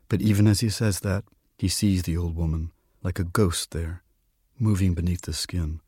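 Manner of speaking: measured storyteller's reading; quiet literary narration; story narration. A narrator's reading. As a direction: read the tale aloud, unhurried. Reads a story aloud.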